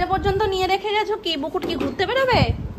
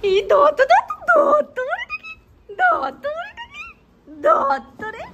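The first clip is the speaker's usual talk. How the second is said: loud, much higher call across the house, drawn out at the end; 12 semitones higher, 4 dB louder, much slower than usual. Real, not acted. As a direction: shout the name to someone far away. Mother calling out to Dutta.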